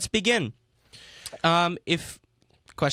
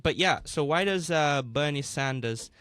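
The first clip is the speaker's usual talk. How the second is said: put-on English accent. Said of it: "I don't know why I did an English accent".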